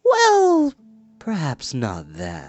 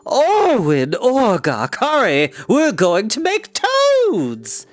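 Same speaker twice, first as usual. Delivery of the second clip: much higher, louder gleeful call; calling out happily; 9 semitones higher, 4 dB louder, much slower than usual. Acted. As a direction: call to her sisters in glee. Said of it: "called out happily".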